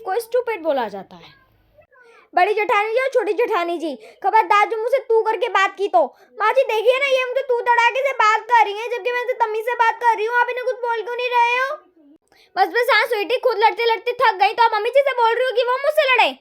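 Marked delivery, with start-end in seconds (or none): 2.3-11.8 higher, aggrieved daughter-in-law whining to her mother-in-law; higher-pitched offended bahu tattling; indignant complaint. Acted. 12.6-16.3 higher, snippy daughter-in-law talking back; higher, peevish sister-in-law comeback; sharp retort. Acted. Other bahu snaps back.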